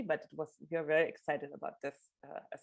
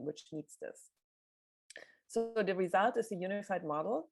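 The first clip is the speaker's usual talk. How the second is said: hoarse voice. Real, not acted. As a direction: voice giving out, raspy and strained. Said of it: "I'm losing my voice today".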